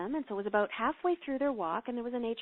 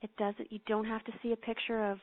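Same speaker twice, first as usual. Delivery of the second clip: calm, unhurried meditation voice with long pauses; guided meditation. Acted. Host guides podcast listeners into prayer, calm meditation voice. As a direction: ease the listeners into prayer, gently.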